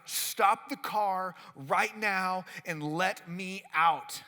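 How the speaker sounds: slow, insistent demand, last word shouted; demanding girlfriend. Retold or imitated. Girlfriend demanding he stop the car, slow then shouting. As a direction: spell out every word then blast out.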